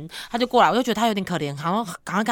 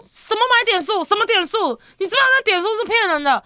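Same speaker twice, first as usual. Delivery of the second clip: higher, fast mock scolding mother; mom scolding; 11 semitones higher than usual. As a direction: rattle it off like a nagging mom. Mom scolding about game points. (模仿妈妈骂人，语速快、声音高)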